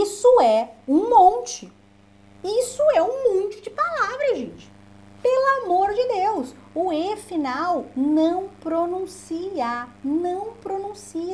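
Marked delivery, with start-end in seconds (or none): 0.0-6.5 much higher, exasperated emphasis; emphatic. Real, not acted. Teacher pleading with students, high and emphatic. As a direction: drive home how many words it is. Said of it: "teacher stressing how many words".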